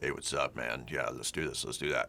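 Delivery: very low, soft voice down in throat and chest. Showing how he used to talk as a kid: low throat-and-chest voice. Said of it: "I used to talk down in my throat and chest".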